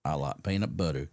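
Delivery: low-pitched deadpan caller voice; imitated odd caller. Prank caller tells the host another food, low mock-caller voice. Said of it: "calling in and go".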